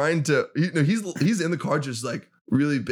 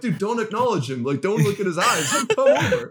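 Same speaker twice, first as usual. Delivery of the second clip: paranoid warning; 7 semitones higher than usual. Retold or imitated. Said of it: "you know, paranoid me".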